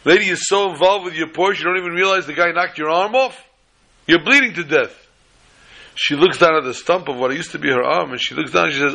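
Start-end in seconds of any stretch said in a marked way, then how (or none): 0.0-4.9 high-pitched incredulous cop; exasperated cop. Acted. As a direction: try to get through to an oblivious driver. Acted cop exasperated at the lady.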